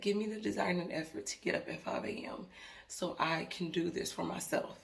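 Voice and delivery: hushed, breathy whisper of a plea to God; a soft retold whisper asking for help; whispered prayer.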